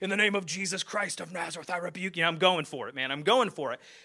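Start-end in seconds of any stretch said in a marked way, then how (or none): 0.0-2.2 rough, gruff southern preacher voice, rebuking tone. Recalling being eleven, the speaker acts out their prayer: gruff southern preacher voice. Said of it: "talking like a, you know, a gruff-voiced southern preacher".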